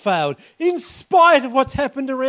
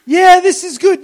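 body saying yes; 6 semitones higher, 10 dB louder than usual. Retold or imitated. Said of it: "Your body starts to go".

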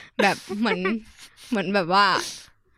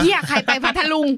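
higher, laughing, what-the-heck; laughing disbelief; 8 semitones higher, 5 dB louder than usual. Retold or imitated. Telling friends her shock, laughing and higher. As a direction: laugh through the panic.

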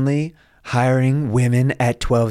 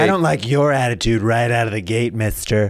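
lightly mocking take on the host; mock talk-show host voice; Doctor Phil impression. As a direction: parrot the host back at him. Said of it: "Don't do an impression of me".

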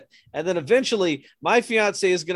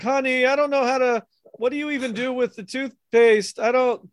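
lightly voiced clueless husband, pitched up; helpless husband; 4 semitones higher, 3 dB louder than usual. Husband asks wife about toothpaste, lightly voiced helplessness. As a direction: play a mildly helpless husband asking for guidance.

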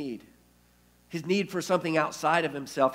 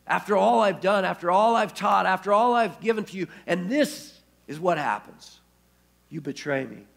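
louder and higher, pressing each after all; rising reproach; 3 semitones higher, 4 dB louder than usual. Retold or imitated. Imagined Jesus reproaching Peter, louder and pained. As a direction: build the hurt reproach line by line.

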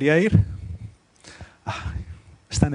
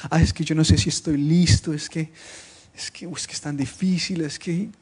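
hesitant excuse-making. Acted. Voices a hesitant believer's excuses. (excusas titubeantes, imitadas)

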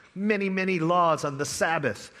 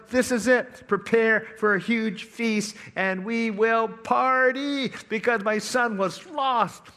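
joyful proclamation; 5 semitones higher than usual. Acted. Father announcing the feast.

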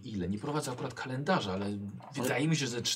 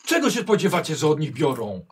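angry; 4 semitones higher, 9 dB louder than usual. Acted. Heminger scolds the players loudly.

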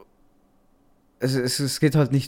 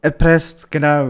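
relieved exclamation; 3 semitones higher, 9 dB louder than usual. Real, not acted. Finally finds the word.

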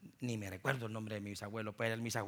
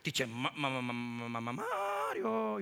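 imitating a stuttering boy; slower than usual. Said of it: "Un niño que apenas hablaba".

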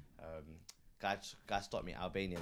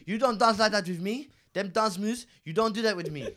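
mock jealous boyfriend; 9 semitones higher, 10 dB louder than usual. Jealous passenger quoted.

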